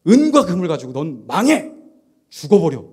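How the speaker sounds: mock furious outburst at the sinner; forceful condemning shout. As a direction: play an apostle thundering a curse. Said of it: "더 강력해야 되는데".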